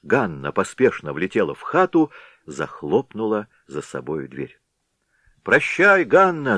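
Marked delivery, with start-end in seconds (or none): 5.4-6.6 high, loud teasing call; shouted farewell. A narrator's reading. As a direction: yell it out to the girl. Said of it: "закричал". (громкий дразнящий выкрик)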